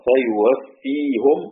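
فيوفيهم slow, ending in -hu-m; فيوفيهُم ببطء; Ruways reading, damma on ha. Shown as a demonstration. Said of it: "رويس بيقرأ".

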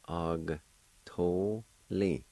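"Og, to, li" in separate syllables, shorter pauses; separated syllables. Shown as a demonstration. Teacher repeating for learners, "Og, to, li" in short separate syllables. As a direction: say "Og, to, li" piece by piece, moving along. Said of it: "pronounce the G sound with the A like this".

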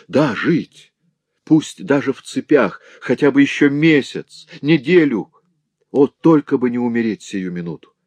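pleading. Acted. Villain begging for his life.

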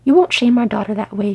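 loud, forceful scolding hiss. Acted. Wife warning Glóin about their daughter, hissing. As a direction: lay down the law crossly. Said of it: "she hissed".

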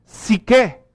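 psique said PSEE-keh, modern way. Shown as a demonstration. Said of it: "Si viviéramos hoy, lo pronunciaríamos".

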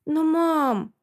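put-on high drawn-out child's whine; whiny drawn-out child. A narrator's reading. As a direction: drag out the plea like a sulky girl. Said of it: "опять протянула Инга". (дочь тянет «Но, мам!», капризным высоким голосом)

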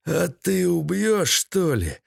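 high-voiced old villain scoffing; jeering captive. A narrator's reading. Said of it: "заржал Седой".

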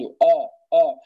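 آ، آ، said thick and dark, the wrong way; heavy hamza. Shown as a demonstration. Teacher demos the wrong heavy hamza. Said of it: "هذا خطأ".

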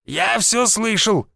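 put-on high, slow old man's reply. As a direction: drawl it like a sly old man overhearing. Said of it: "сказал дед".

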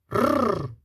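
rolling growl; dog growl. A narrator's reading. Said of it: "шерсть на спине тяпки".

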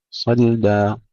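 صلدا with a thin light ل after the ص; صلدا: keep the ل light, not heavy; light lam. Shown as a demonstration. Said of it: "ترقيق اللام". (ترقيق اللام في صلدا)

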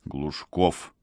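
soft, shaky trembling call. A narrator's reading. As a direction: let the voice quiver softly. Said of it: "произнёс я дрогнувшим голосом".

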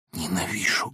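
low, soft, heavy breath; quiet, breathing hard. A narrator's reading. Laevsky to von Koren, low and panting. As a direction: hiss it out, breathing heavily. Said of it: "тихо и тяжело дыша".

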